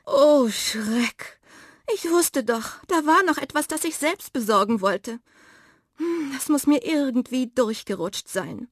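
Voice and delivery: high, startled little cat, playing innocent; flustered cat character, lightly surprised. A narrator's reading. Miranda realises she forgot.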